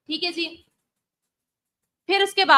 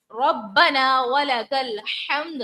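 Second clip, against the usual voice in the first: slow drawn ربنا with doubled ba; slow chanted recitation; tajweed recitation; much slower than usual. Shown as a demonstration. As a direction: recite slowly, stressing the shadda. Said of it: "با کو جماؤں سے ادا کریں گے".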